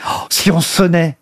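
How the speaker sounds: ordinary talk, nothing marked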